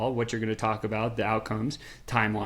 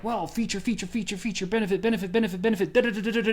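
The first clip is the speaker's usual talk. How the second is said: much higher, sing-song mock sales patter; rattling salesman pitch; 8 semitones higher, faster than usual. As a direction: parody a clerk reciting features. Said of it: "and he's like".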